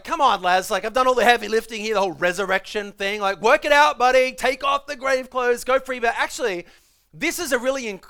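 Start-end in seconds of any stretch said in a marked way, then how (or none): 0.0-6.0 buddy-like Jesus. Pretend. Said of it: "you could imagine in that moment".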